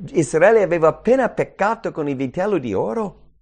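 ordinary talk, nothing marked

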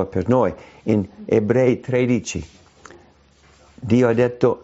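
ordinary talk

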